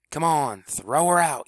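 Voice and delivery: high, loud shout to the field; urgent yell to the fielder; catcher's yell. A narrator's reading. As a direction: bark the order across the diamond. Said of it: "yelled Jerry the catcher".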